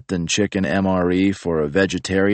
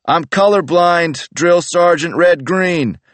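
nervous recruit; 12 semitones higher, 6 dB louder, slower than usual. Retold or imitated. Recruit answering yelling sergeant.

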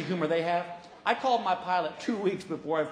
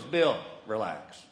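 lightly voiced unbothered flyboy; cool pilot; 5 semitones lower, 4 dB quieter than usual. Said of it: "He goes".

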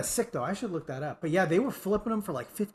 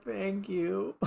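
relieved; 4 semitones higher, 4 dB quieter than usual. Retold or imitated. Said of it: "you could hear the relief".

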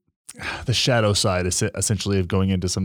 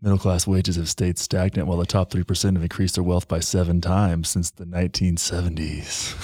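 lightly seductive podcast-host voice on dry politics; mock hot buttery voice; 2 semitones lower than usual. Shown as a demonstration. Podcaster showing co-host his sexy politics talk, mock buttery voice. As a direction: purr the statistics, slowing and sinking at the end. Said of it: "Yours is just a hot, buttery voice".

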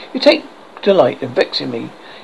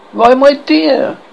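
much higher, slow, drawn-out opening; wife bursting to share gossip, high and slow; eager wife; 10 semitones higher, 4 dB louder, slower than usual. Acted. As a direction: gush it out like an excited wife. Wife eagerly begins her news.

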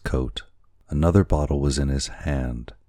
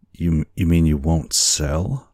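stammered, slightly raised disbelief; understated stunned question; mild gasp; 3 semitones higher, 4 dB louder than usual. Acted. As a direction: gasp the question, lightly shocked. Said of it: "gasped Kiawe".

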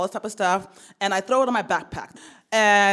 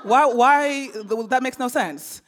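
laughing in disbelief, a bit higher; 4 semitones higher than usual. Retold or imitated. Son protesting mom's odd request, laughing in disbelief.

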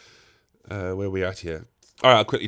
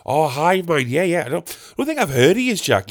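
high-pitched imitation of a chatty labourer; nosy gardener; 5 semitones higher than usual. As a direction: mimic an over-familiar gardener, pitched up. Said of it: "replaced all the mates with Jack".

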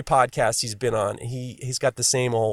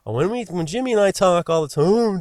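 rough imitation of a Malden accent, pitched higher; attempted Malden accent; 4 semitones higher than usual. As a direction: have a shaky go at a Malden accent. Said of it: "I can't even do that accent".

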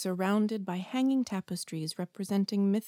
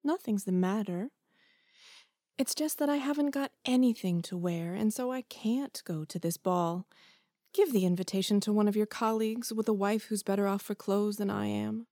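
steady and composed after tears; wife forcing calm after crying. Acted. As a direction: hold back the tears, speak calmly. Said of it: "replied in a calm voice".

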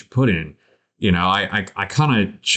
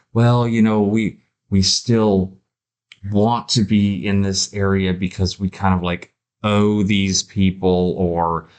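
slow, stalling hesitation; hemming and hawing; slower than usual. Retold or imitated. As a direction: drag the words out as if unsure. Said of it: "we're hemming and hawing".

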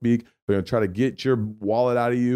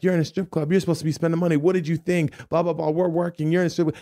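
mocking the strippers; 8 semitones higher than usual. Strippers ganging up, voiced.

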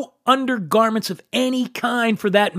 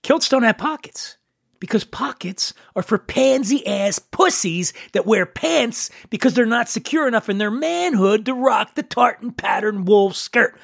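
ordinary talk, nothing marked

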